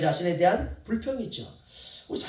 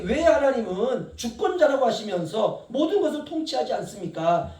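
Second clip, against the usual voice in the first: complaining question; 4 semitones higher, 3 dB louder than usual. Acted. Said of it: "불평에 섞인 질문을".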